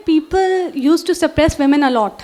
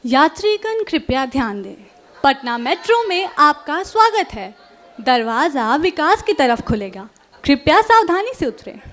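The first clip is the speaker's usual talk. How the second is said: metro station announcer voice; train announcement; much faster than usual. Pretend.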